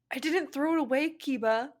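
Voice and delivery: high, loud hammed-up scream. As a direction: scream it at the boyfriend. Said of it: "she screamed".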